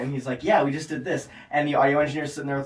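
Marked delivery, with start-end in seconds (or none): 0.4-1.3 mildly upbeat imitation of a proud artist; happy, imitated. Artist showing off his song to the engineer, mildly happy. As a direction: quote him pleased with himself. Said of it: "he's, like, all happy talking about it".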